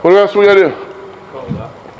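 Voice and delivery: What else we gotta do? stretched slow and teasing; drawn-out question. Shown as a demonstration. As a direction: drag it out to prompt the answer.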